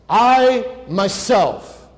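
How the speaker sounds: very slow "I myself" with "I" hit hard; "I" in "I myself" slow and heavy; emphatic I myself. Shown as a demonstration. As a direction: drag "I myself" and push the "I". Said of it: "It's in the emphatic tense".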